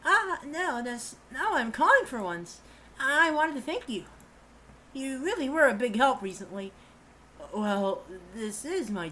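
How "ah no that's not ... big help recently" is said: a man voicing a polite young woman; girl voice. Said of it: "the girl voice again".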